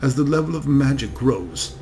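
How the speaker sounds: put-on slow, savoring German accent, every vowel tasted; a dragon's envoy in slow, relishing German accent. German envoy briefs the committee in slow German accent. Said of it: "speaks slowly with deep, melodious German accent".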